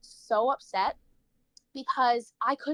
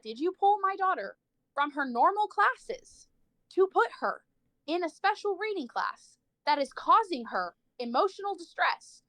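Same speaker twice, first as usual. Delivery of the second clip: higher, rising indignant questioning; mom's indignant demand; 5 semitones higher than usual. Retold or imitated. Mom confronting the school over her daughter, higher and indignant. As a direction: press them hard like an outraged mother.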